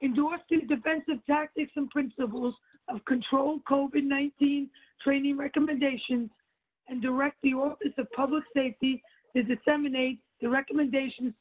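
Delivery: weary voice after a sleepless night; low, worn-out voice; low tired voice. Real, not acted. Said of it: "my voice is very low because I've been out all night working".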